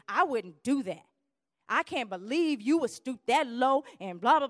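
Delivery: prim, superior mock tone; self-righteous. Acting self-righteous speaker.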